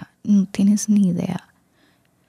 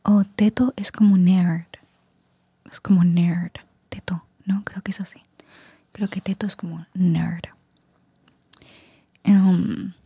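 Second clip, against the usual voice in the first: ASMR whisper. Real, not acted. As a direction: whisper close to the mic, relaxing the listener. Susurro ASMR todo el video. (susurro ASMR suave)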